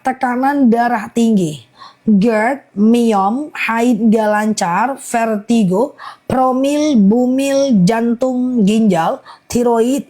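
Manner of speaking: slow, measured list, item by item; slow repeat. Real, not acted. Live seller listing ailments for buyers, slowly. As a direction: let each ailment stand on its own. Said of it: "Aku ulang pelan-pelan ya".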